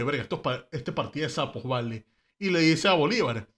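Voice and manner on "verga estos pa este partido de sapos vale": softer, lower grumble under the breath; muttered aside. Retold or imitated. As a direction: mutter it so the snitches won't hear. Camejo mutters about the snitches.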